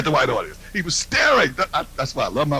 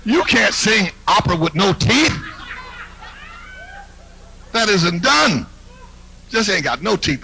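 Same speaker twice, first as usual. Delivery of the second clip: sassy scolding; 3 semitones higher than usual. Retold or imitated. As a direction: scold her with sass, building up. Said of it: "I said".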